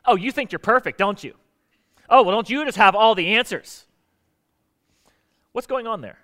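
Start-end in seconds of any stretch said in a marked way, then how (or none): 0.0-3.9 mocking "don't you" with a louder sneer; hammed-up sarcasm; defensive spouse throwing back sarcasm; sarcastic defensive retort. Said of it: "what usually happens".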